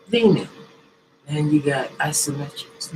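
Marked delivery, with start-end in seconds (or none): 0.1-0.5 sudden high loud command; coaching shout. Shown as a demonstration. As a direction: bark the cue like a coach. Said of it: "And if it's leaning".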